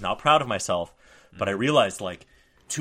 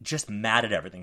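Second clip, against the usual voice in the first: ordinary talk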